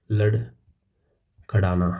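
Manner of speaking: लड़खड़ाना stretched out slowly, each syllable dragged; drawn out. Shown as a demonstration. Teacher acting out the meaning of stagger, slow and stretched. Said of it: "stagger का मतलब होता है भाई लड़खड़ाना".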